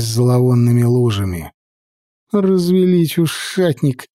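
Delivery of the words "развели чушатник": grumbling. Acted. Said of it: "брюзжал Валид".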